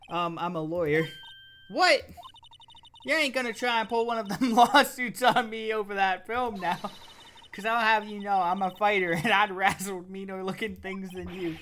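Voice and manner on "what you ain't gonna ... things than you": loud Southern scrapper squaring up; Southern bumpkin. Acted. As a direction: bristle like a scrappy country girl. Lotta bristles at the lawyer.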